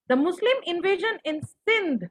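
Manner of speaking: very slow, word by word dictation. Shown as a demonstration. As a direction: dictate each word slowly for notes. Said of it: "Are you guys writing?".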